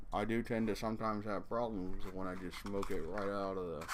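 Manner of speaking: light cowboy voice. Real, not acted. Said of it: "I suddenly sound like a cowboy".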